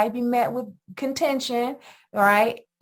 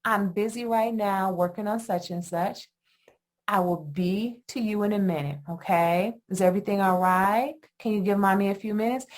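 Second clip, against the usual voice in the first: calm explaining. Retold or imitated. Mother explaining to her child why she is busy, gently. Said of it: "When we explain, then it becomes".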